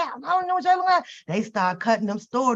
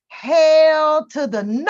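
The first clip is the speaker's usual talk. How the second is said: slow, louder and higher hell to the no; emphatic refusal; 5 semitones higher, 6 dB louder, slower than usual. Acted. Friend refusing to come to the party, slow loud no. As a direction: stretch it out and shut them down.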